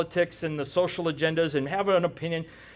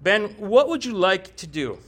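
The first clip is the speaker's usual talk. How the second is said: patient, slower question to Ben; slower repeat. Retold or imitated. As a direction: Lord asks again, slower. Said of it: "And He goes".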